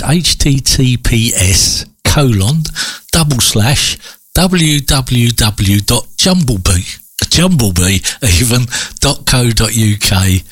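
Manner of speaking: slow, measured spelling-out of a web address; spaced out, item by item; slow dictation. Real, not acted. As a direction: read it out slowly for listeners writing it down.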